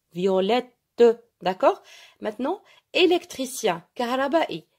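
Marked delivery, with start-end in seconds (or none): 0.1-0.7 "Violette" with the final t released as a separate "te"; pronunciation model. Shown as a demonstration. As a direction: sound out "Violette", pausing before a clear "te". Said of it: "comment on se prononce?". (« Violette » bien articulé, le « te » final détaché)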